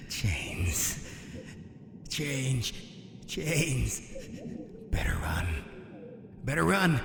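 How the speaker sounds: soft taunting. Acted. Villain teasing the hunted admiral, soft and taunting. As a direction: taunt him quietly from the shadows.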